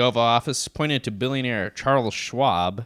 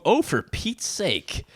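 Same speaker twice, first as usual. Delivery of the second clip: put-on high, slow exasperated old senator; exasperated exclamation; 7 semitones higher, much slower than usual. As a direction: drag out the mock outrage. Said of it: "exclaimed Senator".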